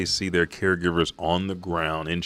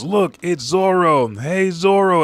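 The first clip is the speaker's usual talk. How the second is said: high, loud call to a friend; excited yelling; 11 semitones higher, 8 dB louder than usual. Retold or imitated. Luffy spotting Zoro from dragon's head, yelling. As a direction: holler the name, pitched way up. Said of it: "as he's yelling".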